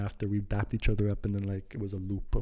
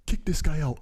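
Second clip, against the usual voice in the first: raised, higher-pitched imitation of an order; lightly acted shout for backup; mock ordering; 6 semitones higher than usual. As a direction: call it out like someone summoning security. Acts out man ordering him out.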